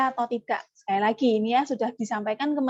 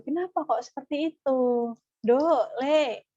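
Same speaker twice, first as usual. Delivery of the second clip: put-on calm, level question to the child; gentle asking. Shown as a demonstration. Parent calmly asking why the child is sad, gentle. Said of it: "Kita tanya dulu".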